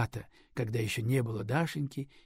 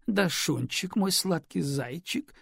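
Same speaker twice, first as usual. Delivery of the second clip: put-on higher cooing baby talk, slowing; 5 semitones higher, slower than usual. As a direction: coo to the baby, drunk and sugary. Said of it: "засюсюкала она". (сюсюканье с малышкой)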